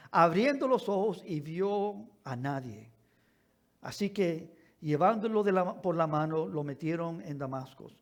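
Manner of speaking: deliberate, declaimed Bible reading with long pauses; solemn pulpit reading; scripture reading. Acted. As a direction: read scripture aloud, weighting key words. Reads scripture aloud to congregation.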